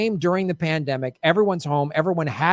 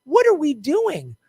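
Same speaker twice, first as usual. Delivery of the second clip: dismayed, slow; 6 semitones higher, slower than usual. Retold or imitated. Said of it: "everyone was like".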